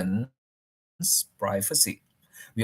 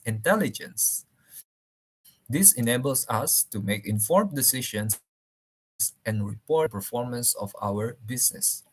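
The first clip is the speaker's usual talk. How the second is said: talking while chewing gum; words around chewing gum. Real, not acted. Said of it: "Excuse me, I'm chewing gum".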